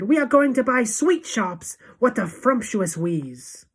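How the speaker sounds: high, loud delight, slowing and lowering; crowd cry. A narrator's reading. Witches delighted by the scheme, excited cry. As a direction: cry it out, then savour the last phrase. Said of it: "they cried".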